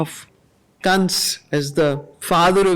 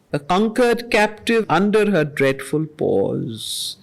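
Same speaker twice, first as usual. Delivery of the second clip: poem recitation. Acted. Teacher reading Savitri lines to the class, measured and solemn. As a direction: let each line land with weight. Reads Savitri verse aloud.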